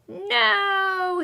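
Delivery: loud, high cry of alarm; shout. A narrator's reading. Alien shouts as his tricycle crashes, alarmed cry. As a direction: yelp "No" as he crashes. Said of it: "he shouts".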